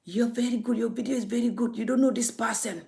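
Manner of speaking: mock a caller's sweet talk lightly; lightly mocking flattery. Vlogger lightly mimicking callers praising her video. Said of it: "they call you".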